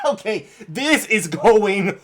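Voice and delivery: slow, laughing through words. Real, not acted. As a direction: talk while still laughing. Laughing at the proposal clip.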